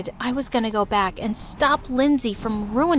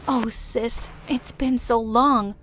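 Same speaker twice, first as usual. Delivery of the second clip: tender. Acted. Tender reunion and apology.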